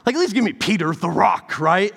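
high, loud mock disbelief; a hammed-up outraged what; incredulous student. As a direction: playfully protest the prophecy. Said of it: "the student was like".

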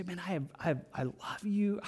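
soft, loving reassurance; hushed, heartfelt tenderness; tender affection. Acted. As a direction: say it gently, as if from a caring heart. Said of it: "it just sets the tone of voice".

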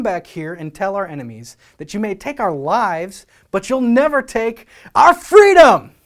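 rally them until it bursts out; William Wallace speech. Retold or imitated. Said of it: "he says".

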